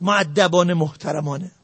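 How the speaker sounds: dropping to a near hush, gently; soft and gentle. Real, not acted. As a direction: say it softly, as if modelling politeness. Softly naming politeness and respect. (آرام و مؤدبانه، با صدای نرم)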